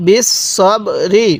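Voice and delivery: slow, drawn-out বিস সব রি; model recitation. Shown as a demonstration. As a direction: hold each syllable of বিস সব রি, separately. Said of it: "কীভাবে পড়ব?".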